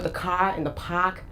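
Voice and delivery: "ka" and "pak" with the r dropped; Boston-style "ka" and "pak", no r sounds; Boston accent. Shown as a demonstration. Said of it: "I don't speak with".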